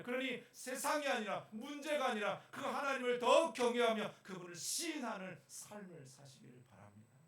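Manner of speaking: loud, rising fervent sermon; preaching. Acted. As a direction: preach it with full force. Preaching at full force.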